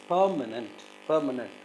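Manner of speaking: "permanent" with weight on PER; "permanent", first syllable strongest; stress on first syllable. Shown as a demonstration. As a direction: lean on the opening of "permanent", then fall. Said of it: "The first syllable is stressed".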